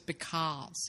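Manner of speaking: "Because" with a rounded British aw in the second syllable; British-tinged because. Shown as a demonstration. Co-host showing an actor's slip, "Because" with a British vowel. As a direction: say "Because" as be-CAWZ. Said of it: "instead of "because," the way an American would".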